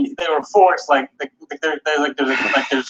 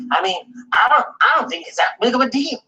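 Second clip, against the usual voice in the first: mock Gabe; 10 semitones higher than usual. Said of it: "He's like".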